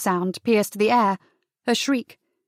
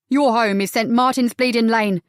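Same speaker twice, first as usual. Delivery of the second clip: shot back; 4 dB louder than usual. Acted. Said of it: "shot back".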